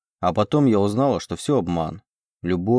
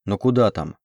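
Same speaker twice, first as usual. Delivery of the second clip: ordinary delivery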